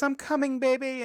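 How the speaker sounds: high, loud mock heroic call; father calling out. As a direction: holler it to a daughter, hammed-up. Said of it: "and he goes".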